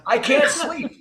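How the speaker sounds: hammed-up flashback outburst; traumatized veteran. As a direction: wail it slowly to your doctor. Acting a traumatized veteran to a doctor.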